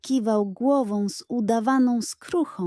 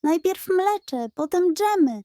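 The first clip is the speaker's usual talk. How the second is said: stern reminder; 8 semitones higher, 4 dB louder than usual. Acted. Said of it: "przypomniała Klementyna, robiąc groźną minę".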